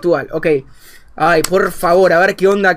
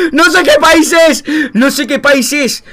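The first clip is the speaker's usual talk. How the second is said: baffled disbelief; 7 semitones higher, 5 dB louder, slower than usual. Real, not acted. Baffled after laughing.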